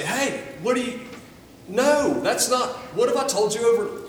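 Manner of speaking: a hammed-up stern rebuke; scolding. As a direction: play an impatient Jesus snapping at you. Imagined Jesus scolding a believer.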